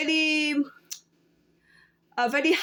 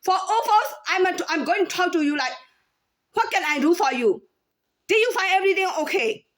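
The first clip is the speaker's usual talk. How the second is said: sweet clerk voice; 5 semitones higher than usual. Retold or imitated. Cashier showing the tone she switches to for customers, higher and sweet. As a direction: pour on the polite shop charm. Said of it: "change my tone to like".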